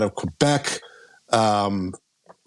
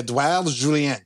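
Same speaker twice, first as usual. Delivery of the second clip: Edouard Julien said the French way, Julien with a nasal French ending; a hammy French flourish on Edouard Julien; French accent; 3 semitones higher than usual. Shown as a demonstration. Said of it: "there was no flair from Jim".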